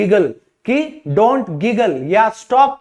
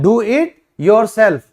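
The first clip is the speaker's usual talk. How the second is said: slow repeat; much slower than usual. Shown as a demonstration. Teacher repeating the phrase for learners, slow. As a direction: do it yourself again, slow and even. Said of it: "ये खुद करो".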